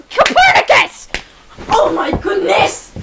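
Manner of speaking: high shouted outburst; mock outrage shout. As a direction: yell it out in mock shock.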